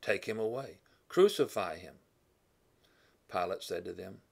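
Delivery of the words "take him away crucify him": raised mock crowd shout, higher and louder; demanding crowd, rising to a louder final crucify him; crowd crying out. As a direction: call it out like an angry mob. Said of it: "So they cried out".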